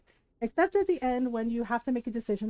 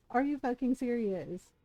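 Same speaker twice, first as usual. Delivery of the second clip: softer, flat repeat of the question; deadpan disbelief; 4 dB quieter than usual. Real, not acted. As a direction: let it drop, quietly fed up. Ranting about a game's ending.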